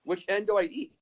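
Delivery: high, puzzled questions; clueless character voice. Retold or imitated. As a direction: ask like it's your first broccoli. Acting out the broccoli scene.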